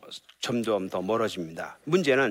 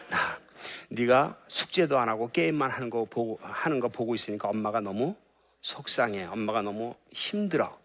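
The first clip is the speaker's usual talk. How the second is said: gentle I-message. Retold or imitated. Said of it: "아이 메시지, 나 전달법".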